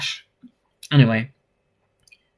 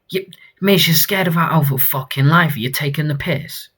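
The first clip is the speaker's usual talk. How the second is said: higher-pitched acted outrage; indignant retort; 3 semitones higher than usual. Reader voices someone defending a terrified employee, indignant. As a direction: protest on a scared colleague's behalf.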